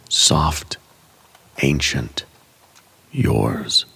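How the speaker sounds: a single whispered word. Acted. Meditation, imagining the inner fire.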